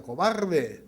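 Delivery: loud, high, furious yell; angry shout. A narrator's reading. Angry boy insults the echo, loud yell. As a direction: hurl the insult at the mountain. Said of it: "Enojado con la respuesta".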